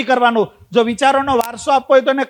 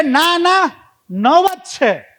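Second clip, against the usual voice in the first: slow, emphatic ના ના નવ જ છે; insisting only nine; 5 semitones higher, much slower than usual. Retold or imitated. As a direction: drag out નવ જ છે stubbornly. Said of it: "એટલે કે". (ધીમેથી ભાર મૂકીને નવ જ છે)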